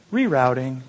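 soft, lightly voiced navigation lady; gentle voice. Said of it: "in that nice, gentle voice".

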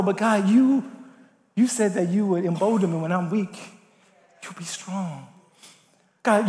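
prayer building then sinking to a hush. Acted. Preacher leads a confession prayer.

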